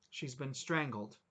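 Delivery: level and slow, emotionless; a numb flat report of the death; no inflection. Acted. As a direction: state it dead flat and slow. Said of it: "No inflection".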